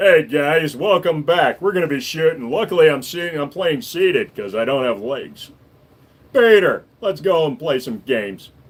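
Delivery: deep, sultry cartoon voice. Pretending to open a gaming video, in a Joe Swanson voice. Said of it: "Joe Swanson".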